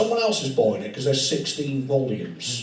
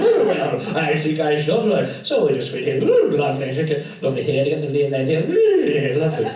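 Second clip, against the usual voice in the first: mock lascivious fitter; 2 semitones higher, 4 dB louder than usual. Acted porn-film fitting scene.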